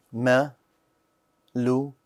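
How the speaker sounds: slow demo reading. Shown as a demonstration. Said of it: "teacher drills word, slow then normal".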